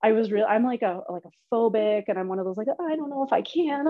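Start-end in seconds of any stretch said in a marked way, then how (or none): 2.7-3.9 higher-pitched wimpy doubt; lightly whiny self-parody; mock whining. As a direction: imitate a reluctant whiner. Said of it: "I'm a kind of a whiner".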